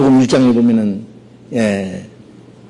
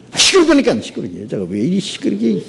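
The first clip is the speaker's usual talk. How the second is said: irritated rebuke; 3 semitones higher, 3 dB quieter than usual. Acted. Disciples rebuking the woman.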